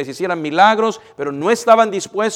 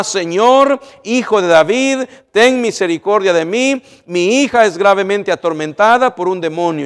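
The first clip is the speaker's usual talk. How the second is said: loud, raised plea for mercy; crying out; 4 semitones higher, 7 dB louder than usual. Acted. Mother shouts to Jesus for her tormented daughter, loud pleading cry. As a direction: beg for mercy at the top of your voice. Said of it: "gritando para cautivar la atención de Cristo".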